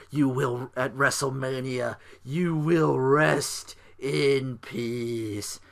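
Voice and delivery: slow, drawn-out ominous threat; dragged-out graveyard warning; Undertaker's voice. Retold or imitated. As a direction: stretch every word like a voice from the grave. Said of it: "The Undertaker's voice".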